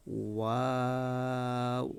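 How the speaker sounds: ওয়াও said slowly with lips rounded; Arabic letter demo. Shown as a demonstration. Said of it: "মুখ বা ঠোঁট গোল হচ্ছে কিনা". (ঠোঁট গোল করে ধীরে ওয়াও উচ্চারণ)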